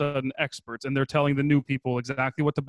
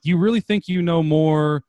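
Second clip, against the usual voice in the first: incredulous; 4 semitones higher, 8 dB louder than usual. Retold or imitated. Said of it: "And I'm like".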